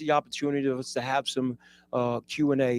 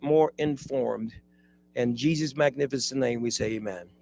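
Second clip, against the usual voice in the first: prayer. Acted. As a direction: lead the room in prayer. Leads a group prayer.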